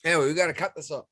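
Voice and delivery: talking through hiccups; words broken by hiccups; hiccuping. Real, not acted. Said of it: "I can't stop hiccuping".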